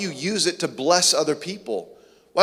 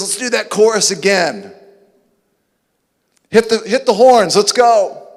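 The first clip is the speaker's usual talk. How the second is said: much louder, higher, rallying call; hyped worship leader; 4 semitones higher, 6 dB louder than usual. Acted. Moses leading the crowd in song, loud rallying call. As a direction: fire up the band. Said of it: "He says".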